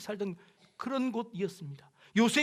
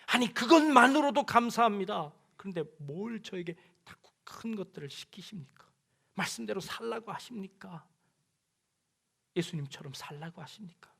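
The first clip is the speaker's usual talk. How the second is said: pleading complaint. Acted. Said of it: "라고 이야기하는 겁니다".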